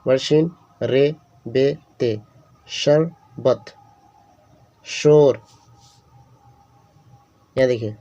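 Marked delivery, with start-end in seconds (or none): 2.7-3.7 शरबत drawn out very slowly, leaning on the opening sh; slow careful demo. Shown as a demonstration. Teacher sounding out a sheen word for students, very slow. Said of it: "यहाँ पर बड़ी शीन है". 4.9-5.4 शोर said louder with a strong opening sh; emphatic demo word. Shown as a demonstration. Teacher calling out the sheen example word, louder. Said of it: "यहाँ पर बड़ी शीन है".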